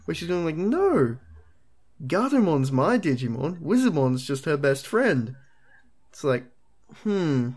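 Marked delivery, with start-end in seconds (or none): 0.6-5.4 lightly voiced little girl insisting; a hint of a kid insisting on her story; mock Kari. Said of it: "That's what she sounds like".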